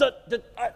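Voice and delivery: mock stutter of a cordless phone losing signal; imitating a cordless phone dropping out; phone cutting out. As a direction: break up like a phone line fading out of range. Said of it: "on your cordless telephone at home".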